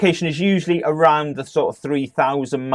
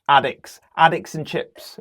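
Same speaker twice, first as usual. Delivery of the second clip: put-on Cockney accent; 4 semitones higher than usual. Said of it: "With, like, a Cockney accent".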